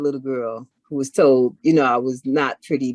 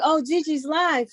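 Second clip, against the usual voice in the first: excited high voice; 12 semitones higher, slower than usual. Retold or imitated. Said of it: "she was like".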